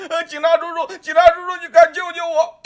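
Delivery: put-on high, loud child's scream for help; boy being kicked, screaming to the officer; terrified child screaming. A narrator's reading. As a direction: scream for rescue while being beaten.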